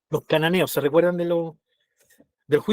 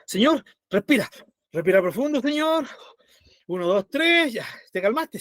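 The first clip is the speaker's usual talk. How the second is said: calming God down; 4 semitones higher than usual. Pretend. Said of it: "Imagínense a Dios diciendo".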